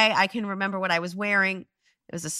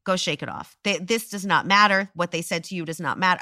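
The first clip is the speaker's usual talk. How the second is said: calm reassurance; 3 semitones lower than usual. Retold or imitated. Woman retelling how an adult consoled her, calm reassurance.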